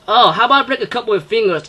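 threat. Retold or imitated. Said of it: "the girl says".

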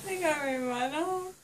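groggy whimpering complaint; crying while drowsy; tearful. Real, not acted.

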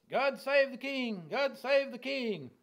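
high, drawn-out royal cheer; acclaiming the king. Acted. Hushai hailing Absalom as the new king, high ringing acclamation. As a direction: proclaim it loudly, stretching the words.

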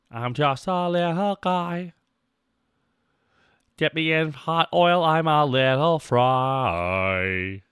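slow, high put-on cartoon voice; silly little guy. Streamer playing a little fry, drawn-out silly voice. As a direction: stretch it out like a tiny cartoon character.

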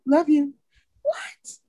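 put-on high, childish calling; mimicking child. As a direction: call out like a kid waking mom. Mimics child jumping on her.

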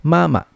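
"mama" high first syllable, short second; fifth tone ending. Shown as a demonstration. Teacher giving Chinese for mother, "mama" ending toneless. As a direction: stop the last syllable of "mama" quickly. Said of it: "hinihinto mo lang yung second niya".

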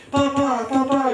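grido acuto di bambino; richiamo gridato. Acted. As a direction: chiama il padre, voce molto alta. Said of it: "gridava Zot". (bambino che grida in cerca del padre)

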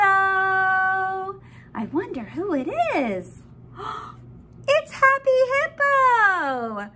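slow, excited reveal; reading to a toddler. Acted. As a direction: build up the surprise slowly.

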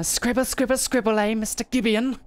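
high mocking sing-song taunt. Diary writer taunting Mister Gibeon, high mocking sing-song. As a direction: taunt him like a schoolyard bully.

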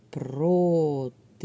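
Протилежний very slowly, syllable by syllable: про-ти-леж-ний; split into syllables. Shown as a demonstration. Teacher divides the word into syllables for pupils, syllable by syllable. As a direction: draw out each syllable of Протилежний separately. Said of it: "Ділимо слово на склади".

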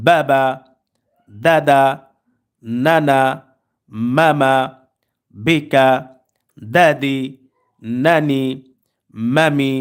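each word read briskly with short vowels and no stretching; teacher reads the example words quickly and clearly; quick reading demo. Shown as a demonstration. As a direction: model the reading for pupils, word by word. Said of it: "আমি reading পড়ছি".

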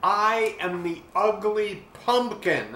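loud, high despairing shout; a pumpkin yelling its name skyward; shouted to the sky. A narrator's reading. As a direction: cry it out to the heavens. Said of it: "I shouted to the sky".

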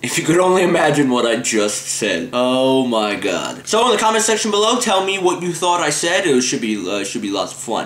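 retainer talk, slurred words; wearing a retainer. Real, not acted. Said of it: "my stupid retainer talk".

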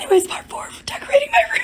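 losing voice, cracking into breathy squeaks. Real, not acted. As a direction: strain through a failing voice. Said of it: "My voice".

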